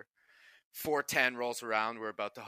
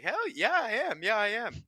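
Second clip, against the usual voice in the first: cocky teammate; 12 semitones higher, 5 dB louder than usual. Retold or imitated. Dupes cocky reply to coach.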